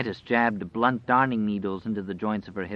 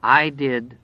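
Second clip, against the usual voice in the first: lightly whined, a little louder; whining; 3 semitones higher, 6 dB louder than usual. A narrator's reading. Wolf's second voice answering itself, whining. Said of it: "the whining voice answered".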